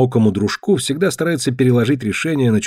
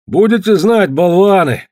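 snapping; 7 semitones higher, 5 dB louder, slower than usual. A narrator's reading. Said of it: "огрызнулся Рыжий Руди".

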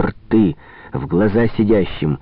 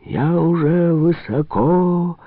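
high, slow voice as if from far away; faraway ventriloquist's voice; distant ventriloquist voice; 9 semitones higher, slower than usual. A narrator's reading. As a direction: speak like it comes from a distance. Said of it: "заговорил он теперь далёким, как чревовещатель, голосом".

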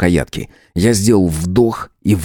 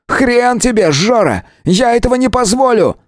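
much higher, fierce refusal; Misha, defiant shout. A narrator's reading. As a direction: stand your ground, gun raised. Миша наставляет револьвер. (Миша, яростно)

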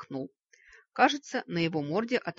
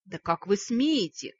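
enraged; 3 semitones higher, 6 dB louder than usual. Acted. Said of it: "взбесился мой несостоявшийся жених".

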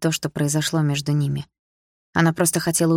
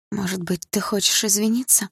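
hoarse question; 4 semitones higher than usual. Acted. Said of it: "хрипло спросила Дилара".

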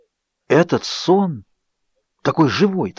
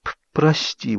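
forced out apology; 4 semitones higher, 4 dB quieter, slower than usual. A narrator's reading. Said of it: "выдавила я".

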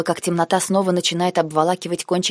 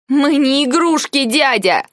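much higher, louder, slow and forceful; angry shout; 10 semitones higher, 6 dB louder, slower than usual. A narrator's reading. Girl shouting at her uncle, angry shout. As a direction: fling it at him in outrage.

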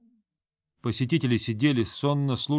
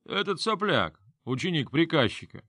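put-on drunk sneer; 6 semitones higher than usual.

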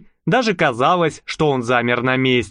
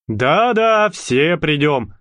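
jokingly; slower than usual. Acted. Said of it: "шутливо согласился мужчина".

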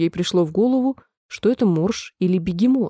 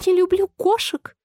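much higher piping mouse voice, offended; shrill mouse squeak; 10 semitones higher than usual. A narrator's reading. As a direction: squeak it out as a startled, indignant mouse. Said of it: "пронзительно пропищала мышь". (пронзительный высокий писк мышки)

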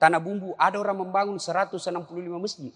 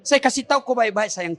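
mock tender. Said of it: "Saya bilang".

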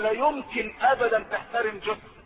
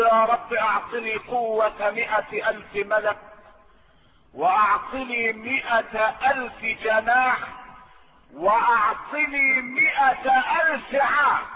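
pleading angel; slower than usual. Acted. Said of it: "قال له".

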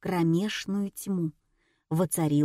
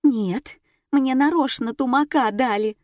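insisting; 6 semitones higher, 4 dB louder than usual. A narrator's reading. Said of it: "настаивала Нина".

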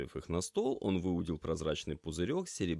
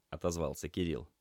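ordinary delivery

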